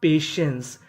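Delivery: पेशेंस as "pe-shens"; TI read as "she". Shown as a demonstration. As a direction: sound out पेशेंस with sh for the TI. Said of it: "टीआई को यहाँ पे शे पढ़ना है".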